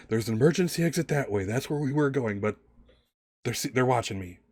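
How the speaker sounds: hurried parting warning; urgent warning. Acted. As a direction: warn them before being cut off, mildly acted. Man's parting warning as doors close.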